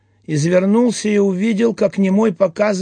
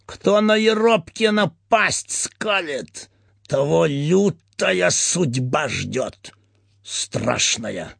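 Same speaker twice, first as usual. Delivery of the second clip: menacing threat; slower than usual. Acted. Eropkin threatening captive.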